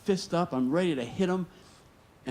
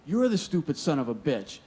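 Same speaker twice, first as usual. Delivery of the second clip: throwing the insult straight back, a bit higher; angry comeback; 3 semitones higher than usual. Retold or imitated. Young worker firing the insult back at his foreman, angry. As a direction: hurl it back in his face. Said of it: "now I'm going at him".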